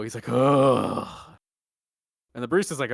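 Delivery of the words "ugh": long groaning exhale; imitating a big effortful groan; bellowed sigh. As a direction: heave out a mock bellowing sigh. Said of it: "He lets out a bellow".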